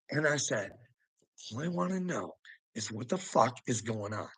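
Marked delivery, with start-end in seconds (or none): 1.5-4.3 softer, restrained retelling; nice, restrained. Retold or imitated. Correcting himself on what he told the cop, restrained. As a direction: keep it soft and civil despite the swearing. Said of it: "I was nice".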